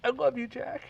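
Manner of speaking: a man pitching up to play Rose. Acted. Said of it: "I'm gonna play the part of Rose".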